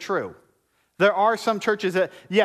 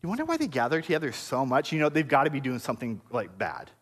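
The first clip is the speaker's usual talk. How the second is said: gossiping accusers; 4 semitones lower, 3 dB quieter than usual. Retold or imitated. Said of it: "the Jews saying".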